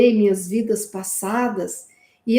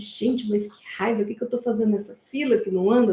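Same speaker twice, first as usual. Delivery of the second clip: plain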